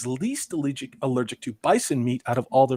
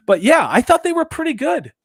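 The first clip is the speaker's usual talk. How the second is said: higher, louder eager answer; enthusiastic; 12 semitones higher, 10 dB louder than usual. Real, not acted. Answering the co-host about the film's accents, eagerly. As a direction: burst out keen and approving.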